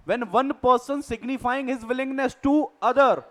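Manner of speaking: reading a legal definition out slowly, word by word; slow, deliberate dictation of a definition. Shown as a demonstration. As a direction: spell out the definition slowly for note-taking.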